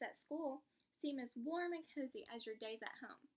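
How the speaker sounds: lively storybook read-aloud; reading to children. Acted. Teacher reading to a child, lively storybook voice. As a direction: bring the picture book to life for the class.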